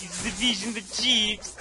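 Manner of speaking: slow fake British; lightly hammed British; mock British accent. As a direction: draw it out in a joking British voice. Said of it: "Do your best British impersonation".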